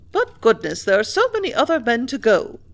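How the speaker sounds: mother pleads he needn't go; cried out. A narrator's reading. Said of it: "cried her mother".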